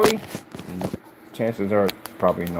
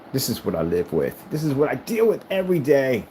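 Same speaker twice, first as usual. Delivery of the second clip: voicing the cat. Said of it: "Cats just gave you that look".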